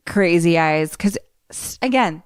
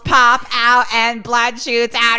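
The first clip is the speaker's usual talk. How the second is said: excited narration; 7 semitones higher, 5 dB louder, much slower than usual. A narrator's reading. Building gory climax narration.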